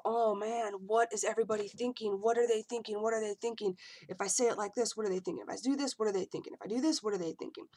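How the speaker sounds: nervous overthinking, lightly played; anxious inner voice. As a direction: imitate your old anxious spiral of thoughts. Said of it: "as worried about".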